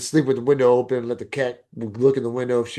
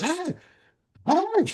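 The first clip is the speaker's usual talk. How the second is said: retold calling out. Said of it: "he walks in and goes".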